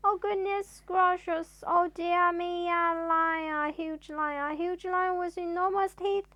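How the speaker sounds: loud, high frightened babble; rising fright then fading; panicked. Acted. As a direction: panic about the imagined lion. Mister Jelly panicking at lion.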